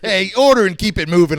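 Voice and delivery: imitated pushy counter guy; rude American. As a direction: hurry the customer along. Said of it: "like a rude American".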